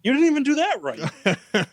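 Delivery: laughing while talking; breaking into laughter. Real, not acted. Laughing mid-sentence at friend.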